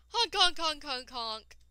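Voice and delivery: honking like a goose; goose honks. Pretend. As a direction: honk like a goose. Imitating geese.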